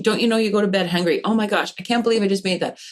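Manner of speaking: quick, mildly exasperated nagging; a parent rushing their child to practice, mock frustrated. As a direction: hurry the kid along, lightly hammed-up. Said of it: "I'm a parent and it's frustrating".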